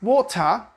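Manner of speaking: "water" with a clear T and schwa ending; crisp T in "water", no final R; pronounced T. Shown as a demonstration. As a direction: say "water" as "waw-tuh". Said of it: "they do pronounce it".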